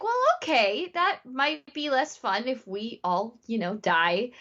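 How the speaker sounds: retold as a careful, wry reality check; wry objection. Micah to Pete on the danger, wry objection.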